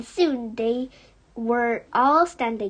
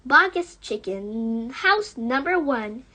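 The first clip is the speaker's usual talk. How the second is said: cried out; 4 dB louder than usual. Acted. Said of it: "cried Mister Fox".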